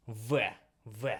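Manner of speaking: "V" as short Russian veh. Shown as a demonstration. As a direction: say "V" as "ve", not "vee". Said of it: "in Russian it will be pronounced as".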